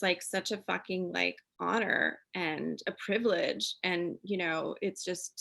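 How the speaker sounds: choked up and quiet; holding back tears; teary. Real, not acted. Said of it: "I'm getting, like, teary again".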